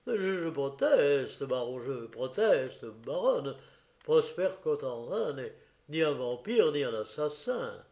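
trembling protest. Acted. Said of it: "d'une voix qui tremblait encore".

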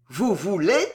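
"Vous voulez" with each syllable hammered. A narrator's reading. Queen revolts against her confidante, "Vous voulez" hammered out. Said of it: "en martelant chaque syllabe".

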